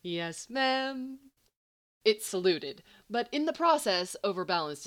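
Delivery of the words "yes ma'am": higher, cheery toy-bear sing-song; sing-song teddy bear. A narrator's reading. Toy bear answers Eve, in high cheery sing-song. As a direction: chirp it like a jolly storytime toy. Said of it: "in that same sing-song voice".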